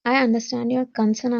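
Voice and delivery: warm, empathetic and supportive. Shown as a demonstration. Teacher showing students an empathetic, supportive tone, warm.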